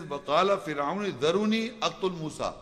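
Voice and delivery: quick chanted Arabic recitation; Quran recitation. Acted. Preacher quoting the verse to the congregation, chanted quickly. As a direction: run through the verse in recitation tone.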